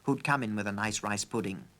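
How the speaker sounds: put-on high, chatty old housekeeper. A narrator's reading. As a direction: gossip cheerfully over pudding. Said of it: "put in Missus Flittersnoop".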